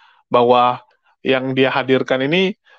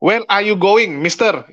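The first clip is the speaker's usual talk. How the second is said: put-on higher-pitched Indonesian-accented English; broken English, Indonesian accent; 5 semitones higher, slower than usual. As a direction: imitate a local quizzing a foreigner in Indonesian-accented English. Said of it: "Dengan logat Indonesia".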